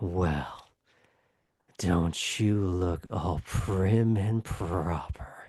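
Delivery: guttural voice. In a narrated scene, a voice cuts through from behind the listener; sharp, guttural voice. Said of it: "a sharp, guttural voice cuts through behind you".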